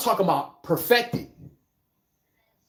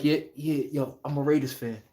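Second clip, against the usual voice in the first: hushed, lower and softer confession; whisper; 7 semitones lower, 7 dB quieter than usual. Retold or imitated. Fan admitting loyalty at a losing game, hushed whisper. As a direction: keep it down so nobody nearby hears. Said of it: "you gotta whisper that shit like".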